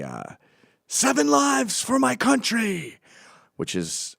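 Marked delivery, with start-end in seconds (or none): 0.9-3.0 much higher, slow, grand declaration; slow, lofty battle cry; solemn samurai proclamation. Retold or imitated. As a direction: proclaim it like a dying samurai's last words. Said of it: "and I say".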